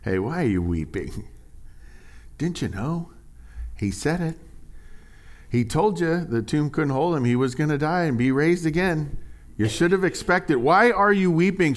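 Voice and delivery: mildly sarcastic, needling question; a hint of a sarcastic angel; mock sarcastic angel. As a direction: tease her for crying. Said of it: "If they had been asking it sarcastically".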